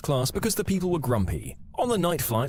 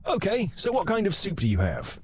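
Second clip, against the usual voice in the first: "what kind of soup do you have" asked higher, firm and self-assured; confident ask; 7 semitones higher than usual. Retold or imitated. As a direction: ask it like it's obvious. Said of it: "confidently ask".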